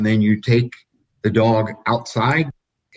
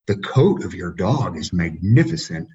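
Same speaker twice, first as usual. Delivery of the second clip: imitated Spanish accent with swooping pitch; Spanish-accented praise, melodic and emphatic; heavy Spanish accent; 3 semitones lower than usual. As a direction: do a Spanish judge's accent, pitch rising and dipping. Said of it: "In his very heavy Spanish accent".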